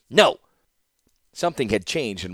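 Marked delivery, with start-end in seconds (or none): 0.1-0.4 loud, higher flat no; sharp refusal. Acted. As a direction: shut it down at once.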